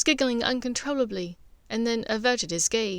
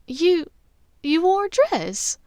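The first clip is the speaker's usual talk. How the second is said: higher, louder, delighted surprise; amused disbelief; 8 semitones higher, 6 dB louder, slower than usual. Acted. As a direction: tease him, barely holding laughter.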